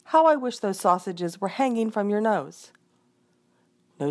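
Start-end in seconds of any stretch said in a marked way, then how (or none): 0.0-2.7 higher, louder exasperated reproach; wife berating the man, a touch shrill; angry scolding. Acted. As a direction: keep scolding the husband, pitch up. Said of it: "cried the wife".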